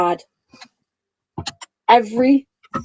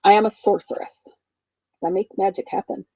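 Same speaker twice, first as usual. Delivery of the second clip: slow solemn affirmation; 4 dB quieter than usual. Retold or imitated. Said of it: "I started claiming the words".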